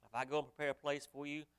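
preacher booming the scripture to the congregation; preaching at full force. Acted. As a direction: ring it out like a pulpit reading. Preacher reads the promise loudly.

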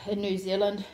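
an accidental New Zealand accent on "in New Zealand"; slipped New Zealand accent. Real, not acted. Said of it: "God, I sounded New Zealand then".

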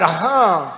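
imitating a man short of breath; mock gasp. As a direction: gasp out a wordless noise in mockery. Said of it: "He couldn't breathe".

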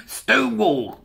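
high, loud announcing call; hammed-up topic announcement; mock fanfare. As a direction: sing out the name like a showman.

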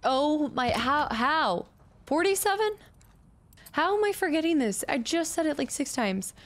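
high-pitched, incredulous outburst; exasperated disbelief. Real, not acted. Gamer baffled at forgetting code, high exasperated squeak. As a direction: pitch jumps way up in self-disbelief.

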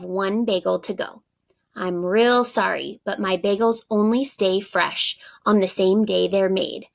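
lively read-aloud; story narration. A narrator's reading. Teacher reading the story's ending to pupils, storytelling voice. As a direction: read the letter and recipe to the class.

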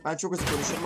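rapid-fire, unplanned rush of words; talking very fast. Real, not acted. YouTuber admitting to viewers he talks fast, rapid delivery. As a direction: rattle it off quickly. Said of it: "çok hızlı konuştuğumu da biliyorum".

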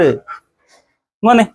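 very slow, long rising call; drawn-out call. Real, not acted. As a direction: stretch every sound to coax him. Calling the dog.

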